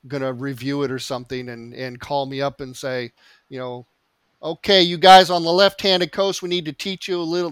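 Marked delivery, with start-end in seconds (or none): 4.4-7.5 put-on Stephen Blackwell Tennessee accent. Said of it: "That's my best Stephen Blackwell, Tennessee accent".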